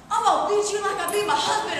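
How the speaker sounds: loud laughing threat; threatening stranger. Retold or imitated. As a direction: ham up the menacing stranger, laughing through it. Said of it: "and it's like".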